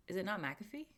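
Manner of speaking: McAfee with stress on the first syllable, MACK-uh-fee; questioned pronunciation. Real, not acted. Streamer asks viewers if she said it wrong, puzzled pronunciation check. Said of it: "Did I say it wrong?".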